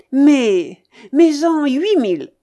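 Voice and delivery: loud, high command to bet; forceful order. Acted. Babouchka orders a bigger bet, forceful. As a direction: push the stake up impatiently.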